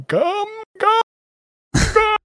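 very high-pitched, drawn-out anime attack yell; imitating Luffy's scream. Host mimics Luffy suddenly shouting his attack, high imitated scream. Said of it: "står og skriker".

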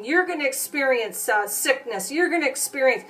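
each YOU hit hard, imitating relentless warnings; pounding repetition. Preacher voicing Satan's threats to the listener, pounding insistence. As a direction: hammer every "you", like threats drummed into someone. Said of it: "he is going to pound this kind of thinking".

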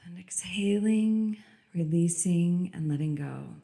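calm meditative tone; guided meditation. Acted. Leads a breathing meditation.

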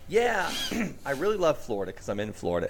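stuffy congested voice with throat clearing. Real, not acted. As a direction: speak through a head cold. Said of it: "I'm so congested today".

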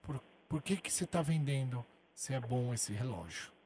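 very soft hushed voice, nearly whispered. Acted. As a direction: keep it barely audible the whole call. Caller whispers the whole prank. (pedindo silêncio em voz baixíssima)

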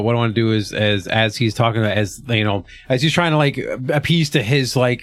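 consoling. Acted. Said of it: "the consoling voice".

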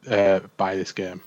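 a half-hearted sales push from an unsure publisher; hesitant publisher pitch. Retold or imitated. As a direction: publishers quoted pushing the game anyway, slow mock hesitation. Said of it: "But the publishers are like".

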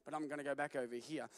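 quiet, quick hushed mutter to himself. Retold or imitated. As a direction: mutter it under your breath, hurrying. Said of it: "I'm like".

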